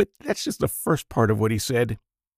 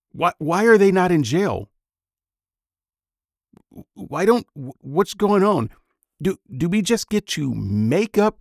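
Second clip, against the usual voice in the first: indignant; 6 semitones higher than usual. Real, not acted. Indignant questions at the preacher.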